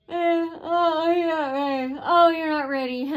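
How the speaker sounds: high, loud sing-song mockery; mocking taunt. Staff member taunting the half-dressed patient, high mocking voice. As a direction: sneer it like you're laughing at them.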